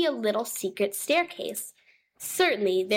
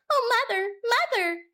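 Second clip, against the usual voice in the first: high, small kitten voice calling out; a scared little kitten crying for mum; frightened kitten; 12 semitones higher than usual. Acted. Kitten Moppet calling to her mother, high and frightened.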